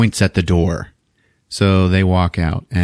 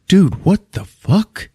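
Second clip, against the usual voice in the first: high, slow, incredulous question; mock appalled disbelief; 10 semitones higher, slower than usual. Jennifer reacts to bleeding hands.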